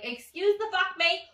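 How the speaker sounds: loud, indignant disbelief; retold annoyance. Narrator finding fake money, loud annoyed disbelief. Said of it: "I was so annoyed".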